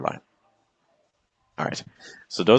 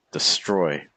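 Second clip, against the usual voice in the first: "destroy" with the weight on "-stroy"; light "de", stressed "STROY"; iambic stress; 2 semitones lower than usual. Shown as a demonstration. Teacher giving students an iambic example word, second-syllable stress. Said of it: "some words that are iambic".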